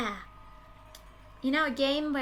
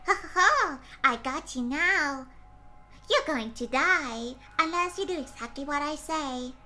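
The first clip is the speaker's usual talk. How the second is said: squeaky kidnapper; 3 semitones higher than usual. Pretend. Masked kidnapper threatens captive for ransom, hammed-up squeaky menace. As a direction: play a mock-menacing squeaky kidnapper with a cackle. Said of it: "the voice comes out all squeaky like this".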